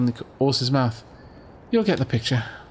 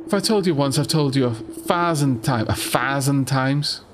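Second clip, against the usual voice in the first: put-on London accent; 2 semitones lower than usual. Voicing game character, London accent.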